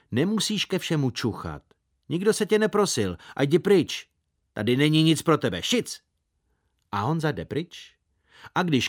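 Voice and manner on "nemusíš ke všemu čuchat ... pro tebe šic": loud, higher scolding to shoo the cat; strong voice. Acted. Parents shooing the sniffing cat out, loud scolding. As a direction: raise your voice and chase the cat off. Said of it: "praví silným hlasem".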